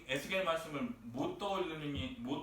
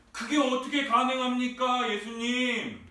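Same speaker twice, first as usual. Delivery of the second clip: puzzled questioning; 4 semitones higher, 4 dB louder than usual. Retold or imitated. Preacher voices Nicodemus questioning Jesus, baffled appeal. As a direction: act out a baffled appeal, stretching the final word. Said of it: "지금 이 질문하고 있다라는 거예요".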